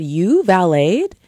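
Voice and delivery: slow, drawn-out judging question; imitating a condescending date. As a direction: stretch it out, looking down on them. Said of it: "a very condescending way".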